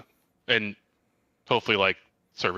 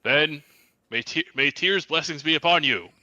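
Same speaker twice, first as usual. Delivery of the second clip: solemn announcer; 8 semitones higher, 5 dB louder, slower than usual. Acted. Announcer blesses fighters.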